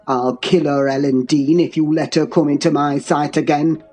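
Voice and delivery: low, dark tirade; deep, menacing commands; enraged father-in-law. A narrator's reading. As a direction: rage in a deep voice without shouting. Heathcliff rages at her.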